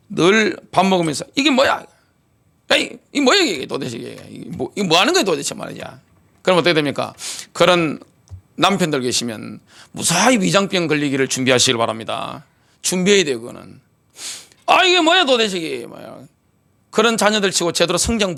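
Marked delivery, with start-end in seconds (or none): 1.3-5.5 imitating a complaint at the dinner table; put-on exasperated grumble; mock grumbling. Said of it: "이걸 원망하는 거예요". 14.7-16.2 higher-pitched imitation of a complainer; put-on fussy complaint; mock grumbling. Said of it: "이걸 원망하는 거예요".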